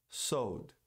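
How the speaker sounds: "sold" like "sowed"; dropped L. Shown as a demonstration. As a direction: leave out the L in "sold". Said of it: "Se eu não pronunciar o L".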